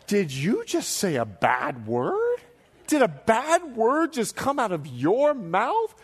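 chuckling, teasing the friend in disbelief; rowing buddy teasing him, laughing disbelief. Retold or imitated. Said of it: "And he goes".

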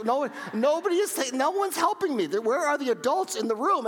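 very high, hammed-up panicked kid; retold desperation. A boy nobody is helping at the pool, mock desperate wail. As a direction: cry out high and frantic, re-enacting it.

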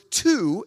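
"to" said hard and full; strong, isolated "to"; emphasized word. Shown as a demonstration. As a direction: punch "to" as a key word. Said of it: "I emphasize those two words".

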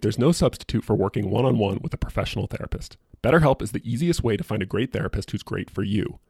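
polished, scripted podcast host read; sponsor ad read. Real, not acted. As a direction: read the sponsor message clearly, line after line.

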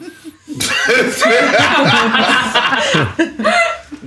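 high, loud, long laughing fit; loud burst of laughter. Real, not acted. Cracking up at the puppy impression, real loud laughter. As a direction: crack up helplessly, loudly.

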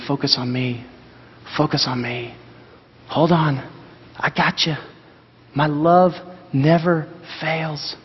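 lightly voiced gentle God, calming. God lifting a scared listener's chin, speaking gently and reassuringly. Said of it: "his gentle hand under your chin and just saying".

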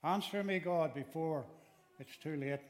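pleading loudly, then settling down; calling out again. Retold or imitated. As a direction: cry out before it's too late. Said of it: "he says".

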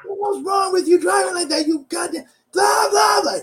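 high, loud furious mock shout; retold yelling. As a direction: bellow it at the other driver like road rage. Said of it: "He's yelling to the world".

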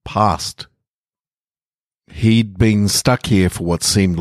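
slow, measured story reading; unhurried storyteller reading a short piece; story narration. A narrator's reading. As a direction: let each image sink in slowly. Reads a short fiction piece.

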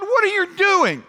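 high-pitched, indignant complaint to God; mock outraged cry of protest; grumbling at God. Israelites crying out to God in complaint, grumbling. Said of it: "they were grumbling at God".

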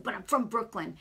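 lightly imitated New York accent. Man protesting about his roots, mock New York accent. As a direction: put on a touch of Brooklyn accent. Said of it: "a real heavy New York accent".

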